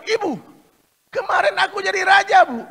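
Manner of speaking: loud, high, eager announcement; excited telling. Acted. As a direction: blurt out the news. Son excitedly tells his mother.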